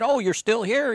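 high-pitched surprised greeting; retold surprise. Host retelling how he greeted a worker, surprised. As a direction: act out a pleasantly surprised question, voice lifted.

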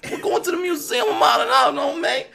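put-on teen pleading with his aunt, very high and loud; begging Peter. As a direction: whine and beg at the top of the voice. Peter keeps begging Aunt May.

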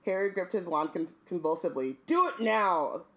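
reading the book aloud; measured narration of the passage; story reading. Acted.

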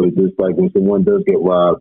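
muffled, bass-only line. Real, not acted. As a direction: voice dulled like through a bad mic. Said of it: "You sound, you sound muffled".

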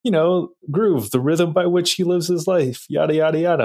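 a hint of a wise old man musing; half-playful old-man quote; quoting the old man. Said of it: "He goes".

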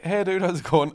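high-pitched attempt at a Pakistani accent; bad Pakistani accent. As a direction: greet in a badly faked Pakistani accent. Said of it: "Worst Pakistani accent ever".

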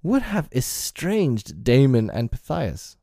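high, slow, emphatic indignation; pompous, theatrical huff; flash of temper. A narrator's reading. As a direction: draw it out in affronted outrage. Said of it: "This little spirit of temper".

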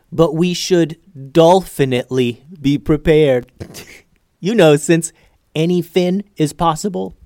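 tickled by his own awful jokes; cracking up at puns. Acted. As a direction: land each pun proudly, laughing between them. Cracking himself up with fish puns.

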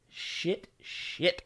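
breathy repeated whisper. Real, not acted. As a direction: whisper it twice. Whispered echo.

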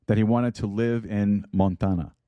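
lightly attempted Russian accent; amateur movie-Russian accent; poor Russian accent. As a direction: try a half-hearted Russian accent. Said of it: "Not a very good Russian accent".

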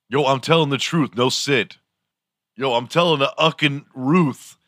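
high hyped-up bro voice; slang bro voice. Pretend. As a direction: play a hyped teen bro. Slang demo voice.

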